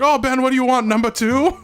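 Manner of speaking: a lightly done, mocking Chinese accent on the order. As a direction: play the roommate game in a bad Chinese accent. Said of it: "in this horrible Chinese accent".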